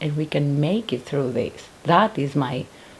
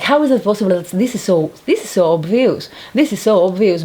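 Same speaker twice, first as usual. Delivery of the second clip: incredulous; 3 semitones higher, 4 dB louder than usual. Retold or imitated. Disbelief at obvious injustice.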